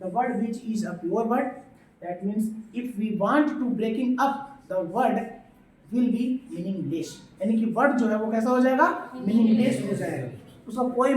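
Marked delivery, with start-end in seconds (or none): 0.0-7.1 slow repeat for understanding. Shown as a demonstration. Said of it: "फिर से समझना".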